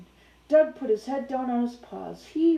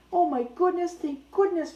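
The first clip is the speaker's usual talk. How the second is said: higher, lively relief; relieved excitement; 6 semitones higher, 3 dB louder than usual. Real, not acted. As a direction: sigh of joy to the dog. Relieved aside to the dog.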